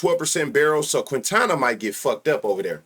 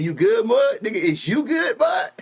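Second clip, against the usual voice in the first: higher mock shouted question; quoting a chatter, hammed up high; mock caller; 9 semitones higher than usual. Streamer quoting a viewer's message, mock high shout. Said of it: "That nigga said".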